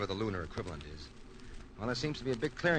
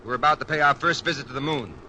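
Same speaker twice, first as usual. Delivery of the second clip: commanding call; 3 semitones higher, 6 dB louder than usual. Acted. Commander rallying crew before landing.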